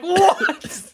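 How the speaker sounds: high squeaky confused monkey "what", breaking into a laugh. Retold or imitated. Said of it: "the monkey's like".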